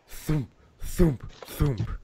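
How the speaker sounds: spaced-out thumps as sound effect; heavy pounding imitated. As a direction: voice slow knocks on a door. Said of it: "someone pounding very heavily".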